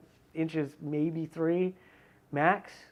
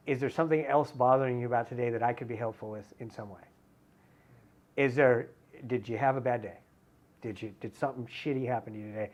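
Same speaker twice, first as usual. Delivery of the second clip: calm apology; 2 semitones lower than usual. Shown as a demonstration. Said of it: "I have to be so careful with that delivery".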